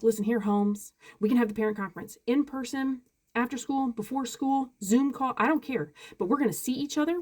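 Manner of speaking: insistent, no-nonsense pushback; firm demand. Retold or imitated. Parent demanding a conference with an unresponsive teacher, firm. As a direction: lay down terms, brooking no excuses.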